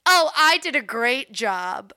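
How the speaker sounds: slow, mock self-satisfied boast; delusional self-praise. Mocking the doctor who botched surgeries, deluded pride. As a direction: congratulate yourself, imitating a deluded doctor. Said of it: "Yeah, he was delusional".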